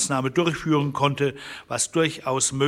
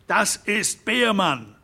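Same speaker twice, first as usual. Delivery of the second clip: higher, slow outcry on the name; shouting; 7 semitones higher, 3 dB louder, slower than usual. A narrator's reading. Harron Derrick shouts the culprit's name to the room, slow and high. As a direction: cry the name out in alarm. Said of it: "schrie Harron Derrick".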